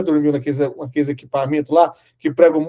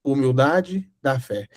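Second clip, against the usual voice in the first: slow solemn title; 3 semitones lower, much slower than usual. Shown as a demonstration. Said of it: "primeira reflexão do dia".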